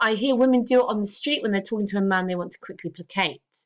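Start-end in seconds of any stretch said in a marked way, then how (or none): none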